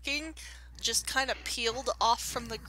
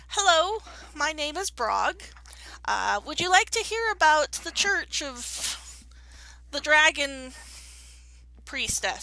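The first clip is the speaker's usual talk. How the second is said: slow, cheery door-to-door preacher pitch; kobold missionary; 4 semitones higher, 3 dB louder, slower than usual. Acted. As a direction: greet strangers like an eager missionary. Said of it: "you overhear him going up to somebody and going".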